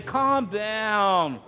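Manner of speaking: curt brush-off to an upset wife; husband brushing off his upset wife, dismissive; dismissive calm down. Retold or imitated. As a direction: wave her off as if it's nothing. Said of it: "my wife is upset about something and I say".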